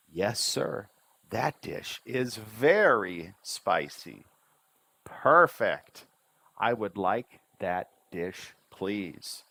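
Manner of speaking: measured dialogue with big pitch swoops, "very" stretched out; "Is this dish spicy" slow with a rising end; run-through with intonation. Shown as a demonstration. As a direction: model each line, punching the start of "Perfect". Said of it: "go through a little faster".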